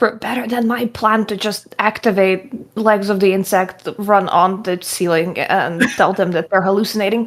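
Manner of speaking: low, hushed half-whisper under the breath. Speaking in character as Lily, half-whispering. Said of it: "Lily's just gonna whisper".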